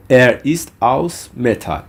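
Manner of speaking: slow, measured German for learners; slow model phrase. Shown as a demonstration. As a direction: model the phrase slowly, word by word. Teacher models German example sentence.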